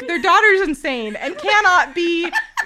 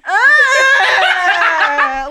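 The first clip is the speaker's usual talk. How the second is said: mock whine; 5 dB louder than usual. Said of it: "like that".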